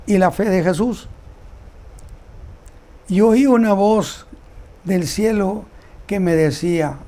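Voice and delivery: deliberate Bible reading in separated phrases; solemn scripture reading. Acted. Preacher reading John's vision to the congregation, solemn scripture reading. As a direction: proclaim each verse with pauses between phrases.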